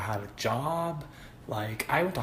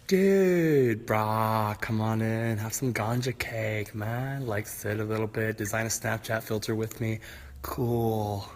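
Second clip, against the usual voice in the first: laid-back stoner dude voice; slow, easy stoner dude; lightly voiced stoner buddy; stoner drawl; 3 semitones lower, slower than usual.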